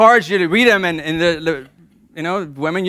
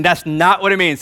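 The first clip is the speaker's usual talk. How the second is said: a little louder, so they hear you; 2 semitones higher than usual. Shown as a demonstration. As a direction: say it a bit louder for the men. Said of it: "Men, a little bit louder".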